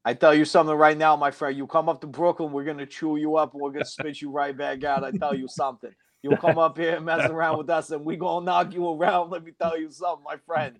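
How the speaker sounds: 大げさなブルックリン訛りのチンピラ口調; ブルックリン訛りで軽く凄んでみせる; mock Brooklyn tough guy. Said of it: "the over-the-top accents from New York".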